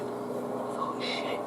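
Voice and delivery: unvoiced dismay under the breath; whispered curse. Remembering the burst pipe over the panel, whispered curse.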